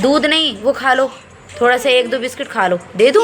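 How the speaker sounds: high, loud coaxing. Real, not acted. Mother coaxing her sick son to eat a biscuit, high and loud. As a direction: persuade him sweetly to eat.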